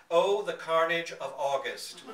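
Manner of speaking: laughing through the words, loud; can barely get it out for laughing; gleeful laughing narration. Real, not acted. Narrator laughing at fly-killing memory.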